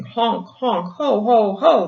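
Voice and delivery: honking laugh. A narrator's reading. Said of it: "the gander laughed".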